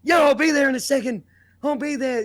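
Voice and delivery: high, loud, quick nan voice; imitating Nan. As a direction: rattle it off as Nan on the phone. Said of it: "Nan's like".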